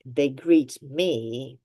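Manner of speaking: slow, with greet drawn out and rising; emphatic stress. Shown as a demonstration. Teacher explaining emphasis to students, drawn out and stressed. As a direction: lean on greet me, slowly. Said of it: "when we are putting emphasis".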